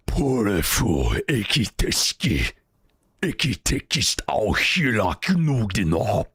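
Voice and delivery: halting Icelandic reading of "ekitekist auhila knugdina"; Icelandic attempt. Shown as a demonstration. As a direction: sound out "Porefu ekiteski" slowly as if in Icelandic. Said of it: "it sounds something like".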